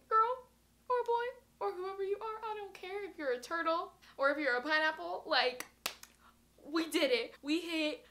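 high, loud celebration; excited. Real, not acted. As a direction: shout it out with joy. Celebrating a thousand subscribers.

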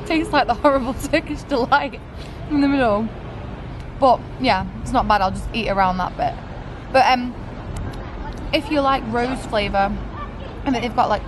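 eating between words; talking while chewing. Real, not acted. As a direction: mouth partly full of donut. Seen 0: Holds bitten donut at mouth, eating between phrases throughout.

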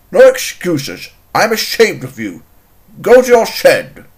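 firm, indignant dismissal; stern scolding. Acted. Controller sending Bert to his shed, stern scolding. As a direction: send the offender off sternly.

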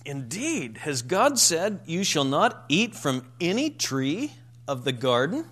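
mock disbelief, rising at the end; incredulous serpent. Preacher voicing Satan questioning Eve, incredulous. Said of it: "when Satan comes along, he says".

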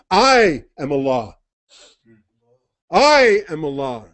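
slow, grave and commanding, a voice from above; solemn divine voice. Acted. God calling Musa from the fire, slow and commanding. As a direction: proclaim each line slowly like God calling from the fire.

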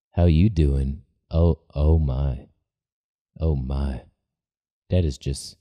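low, smooth crooner voice; deep voice. Real, not acted. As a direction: drop into a deep, silky croon. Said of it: it's like a famous deep-voiced soul singer.

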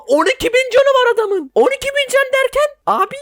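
high, astonished squeal; can't believe the number; stunned disbelief. Real, not acted. Gamer seeing boss health, high stunned disbelief.

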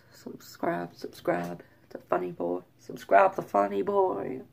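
hesitant, searching attempt at South African; unsure, badly faked South African accent. Shown as a demonstration. Vlogger unable to nail it, tentative South African attempt. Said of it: "South African accents".

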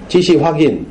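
usual speaking voice

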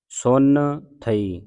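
ਸੁਨ, a pause, then ਥਈ; separated words. Shown as a demonstration. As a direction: pull ਸੁਨ ਥਈ apart into two words. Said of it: "ਇਹ ਵੱਖਰਾ ਹੈ".

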